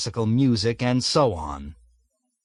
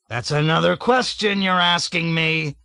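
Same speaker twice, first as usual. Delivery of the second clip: angry shout; 6 semitones higher than usual. A narrator's reading. Colonel yelling at cadet.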